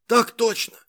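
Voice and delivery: strained husky soldier's answer; hoarse voice. A narrator's reading. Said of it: "ответил сиплым голосом".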